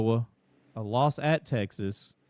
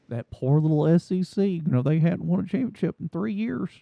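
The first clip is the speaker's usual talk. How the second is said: mock Southern fan; 5 semitones higher than usual. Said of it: "That was a little too Southern sounding".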